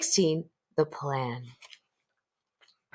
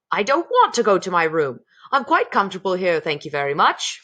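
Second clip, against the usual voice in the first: gruff rude man; 4 dB louder than usual. Acted.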